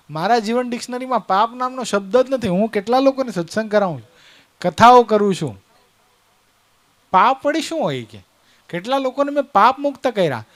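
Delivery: proud holy man listing his merits; indignant boasting. Acted. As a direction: act a touch affronted at being asked about sin. Preacher acts boastful storyteller protesting innocence.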